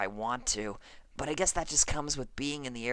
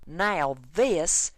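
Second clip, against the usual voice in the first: angry; 3 semitones higher, 4 dB louder than usual. Acted. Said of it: "she gestured angrily".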